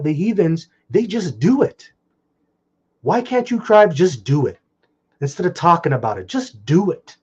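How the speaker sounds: real exasperation, pitch pushed up; frustrated rant. Real, not acted. Preacher venting at his people to just do it, frustrated. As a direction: vent in frustration, voice climbing on the key words. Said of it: "That's just me being frustrated".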